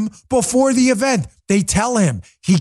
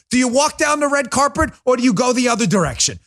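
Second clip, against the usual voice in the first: usual speaking voice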